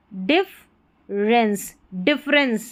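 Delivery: difference in two syllables, dif-rens; demonstrated pronunciation. Shown as a demonstration. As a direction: model difference without the middle "e". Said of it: "ऐसे पढ़ना है इसको". ("difference" को डिफ-रेंस बोलकर)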